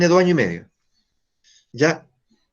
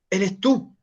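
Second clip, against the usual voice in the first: softer repeat; 3 semitones higher, 3 dB quieter than usual. Shown as a demonstration. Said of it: "Pero eres tú".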